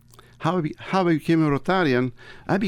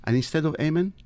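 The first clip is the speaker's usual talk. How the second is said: prayer. Acted. Reads the Rotary invocation.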